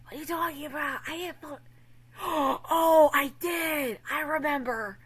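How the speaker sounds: lightly voiced confused denial, then realising; imitating a flustered streamer. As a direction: play dumb, then remember. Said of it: "And I was like".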